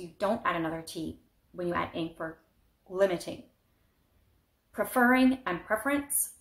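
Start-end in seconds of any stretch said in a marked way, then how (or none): 2.9-3.4 limiting with the beat on LIM; stress on first syllable. Shown as a demonstration. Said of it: "accent is on the first syllable". 4.7-6.3 preferring stressed on FER, preference on PREF; contrasting syllable stress. Shown as a demonstration. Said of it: "same thing".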